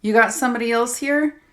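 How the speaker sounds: sneering question. Acted. Abuser sneers.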